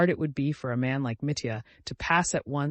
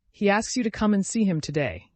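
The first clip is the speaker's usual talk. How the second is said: sudden higher, louder outburst; blurted out; 7 semitones higher, 5 dB louder than usual. A narrator's reading. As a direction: blurt it out all at once. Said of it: "he blurted out suddenly".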